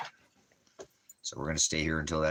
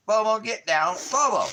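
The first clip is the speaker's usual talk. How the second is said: loud, much higher command to get down; sharp shout at dog; 9 dB louder than usual. Real, not acted. Owner yelling at the dog to get down, loud sharp command. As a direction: snap the dog's name to stop it.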